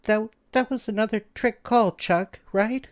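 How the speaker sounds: hope it was only a joke; soft and scared. A narrator's reading. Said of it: "her voice soft and scared sounding".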